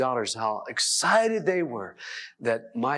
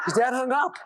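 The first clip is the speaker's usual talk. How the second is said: much higher, in disbelief; incredulous; 11 semitones higher than usual. Shown as a demonstration. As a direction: say it like you can't believe it. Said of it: "repeated with emphasis".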